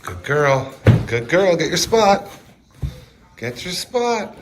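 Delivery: high, loud praise for a dog; high-pitched doggy talk. Real, not acted. Sending the dog to her spot.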